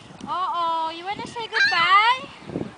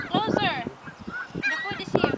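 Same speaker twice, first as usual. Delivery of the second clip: high sing-song pet talk; high coaxing voice; 13 semitones higher, 5 dB quieter than usual. Real, not acted. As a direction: coax it up high. Coaxing birds to food.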